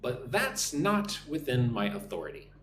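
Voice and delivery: careful model sentence with pauses between phrases; phrase by phrase, unhurried, for repeating; nice and slow. Shown as a demonstration. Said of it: "nice and slow".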